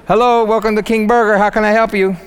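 King Burger cashier, bright and sing-song; chirpy cashier. Pretend. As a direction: sell it like a cheerful drive-thru worker. Imagines a fast-food job.

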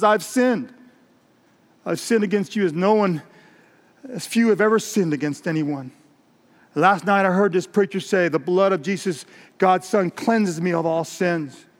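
a touch of weeping remorse; tearful confession. Acted. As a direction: confess earnestly without real sobs. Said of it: "he starts sobbing uncontrollably".

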